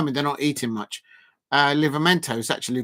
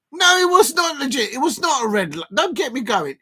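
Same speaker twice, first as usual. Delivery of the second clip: much higher and louder, worked-up denial; indignant denial; 9 semitones higher, 5 dB louder than usual. Real, not acted. Fan insists to the chat the red card was wrong, heated. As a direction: fire back that it wasn't a red.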